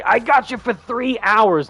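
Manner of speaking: high, drawn-out wrestler taunt; put-on ringside threat; Bonesaw. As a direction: stretch it out like a showboating wrestler. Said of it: "I'm going to become Bonesaw and say".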